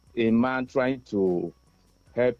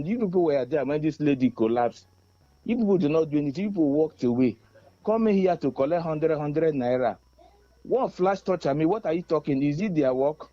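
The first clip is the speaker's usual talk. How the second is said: angry confrontation; 3 semitones higher than usual. Retold or imitated. Confronting police who walked away.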